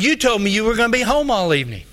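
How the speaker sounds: mildly aggrieved, rushed accusation; retold accusation. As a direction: act out an indignant man insisting on his grievance. Junior accuses the pastor.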